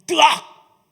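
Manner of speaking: loud, high mock gasp; hammed-up horrified reaction; shocked gasp. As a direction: burst out aghast. Acting out congregation's shocked reaction.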